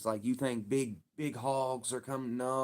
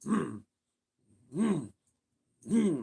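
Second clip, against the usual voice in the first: short, repeated exertion grunts; effort grunts; 5 semitones higher, slower than usual. Shown as a demonstration. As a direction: grunt as if yanking something out. Imitates repeated gutting effort.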